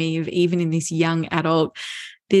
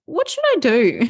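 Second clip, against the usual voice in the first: lightly voiced son, higher pitch; a higher, mildly helpless question; 8 semitones higher than usual. Son phones mom after hurting his arm, mildly helpless. Retells grown son asking for help.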